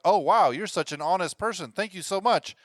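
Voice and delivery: mock-gushing flattery; acted gushing gratitude. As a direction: lay on the praise, singsong and high. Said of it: "He's told, like".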